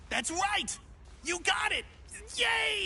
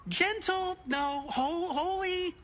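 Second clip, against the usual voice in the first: fumbled prayer. Acted. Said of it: "I'm trying to pray".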